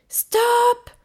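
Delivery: very high, loud yell; shouted halt. A narrator's reading. Child tells the pushing gorilla to halt, shouting. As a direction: yell to halt the push at once. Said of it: "je criai".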